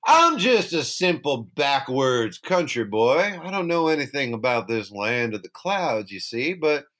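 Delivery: Southern lawyer. Retold or imitated. Jack sweet-talking the harp in a Southern lawyer accent. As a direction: play the humble Southern country lawyer. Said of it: "he sort of turns into, like, a Southern lawyer".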